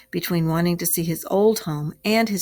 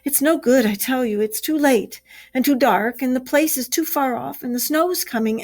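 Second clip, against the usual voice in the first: a lightly raised, pleading Mole; 6 semitones higher than usual. Acted. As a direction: plead with Ratty, voice lifted a little. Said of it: "cried the Mole".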